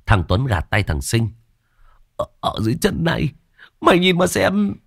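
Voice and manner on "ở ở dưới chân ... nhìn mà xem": frightened stammer. Acted. Tuấn frightened, pointing at ground.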